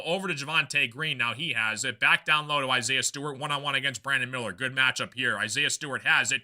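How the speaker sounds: brisk basketball call, rising on the action; live play-by-play. Real, not acted. Broadcaster calling the Pistons game for viewers, brisk play-by-play. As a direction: keep the play moving like a TV caller.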